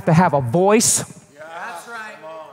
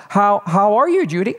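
tentative, higher retold greeting; diplomatic; 4 semitones higher than usual. Brother phoning his burdened sister, carefully diplomatic. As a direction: feel your way carefully into the question. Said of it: "how to be diplomatic".

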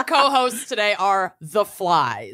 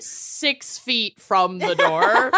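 laughing; much slower than usual. Real, not acted. Laughing, drawn out.

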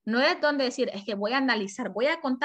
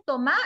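"tomá" rising onto a strong MA; stress on last syllable. Shown as a demonstration. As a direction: punch the final "á" of "tomá". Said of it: "Si yo lo digo así".

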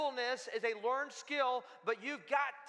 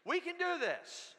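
higher, slow, rallying; rising encouragement; 7 semitones higher than usual. Shown as a demonstration. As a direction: lift the room with it. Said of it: "Say it to them".

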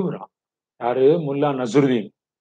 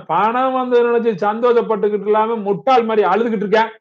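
acted exasperation, pitch raised; irritated; 5 semitones higher than usual. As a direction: scold the weeper in mounting irritation. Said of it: "அப்படின்னு எரிச்சலே ஆயிட்டாரு".

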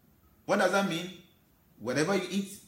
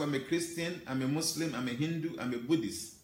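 softer, dismissive listing of labels; mock self-labeling; 4 semitones lower, 5 dB quieter than usual. Preacher mocking believers who stamp themselves, softly dismissive. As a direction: toss the labels off as if stuck in them. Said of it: "now you begin to stamp yourself".

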